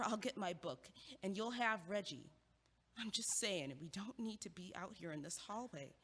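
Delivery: winding down, drawing him out of the hallway; calm reassurance. Acted. Friend calmly promising to sit with him through the heartbreak, softly reassuring.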